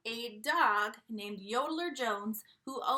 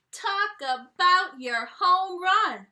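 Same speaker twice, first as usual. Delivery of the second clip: excited; 7 semitones higher, 12 dB louder, much slower than usual. Acted. Excited ballpark exclamation.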